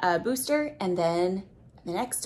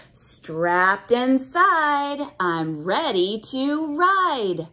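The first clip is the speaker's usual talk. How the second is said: put-on reading to children; 3 semitones higher, much slower than usual. Reads book rhyme.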